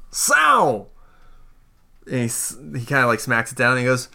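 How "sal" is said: high, drawn-out hail; calling out. Acted. Game master's character hails an arriving friend, calling out. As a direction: call the name out in high-pitched greeting.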